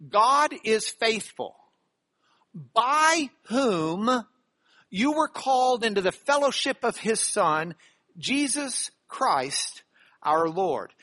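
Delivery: slow, deliberate verse reading with spaced phrases; scripture reading. Acted. Preacher reads First Corinthians to the church, measured scripture reading. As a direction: read it out weightily, phrase by phrase.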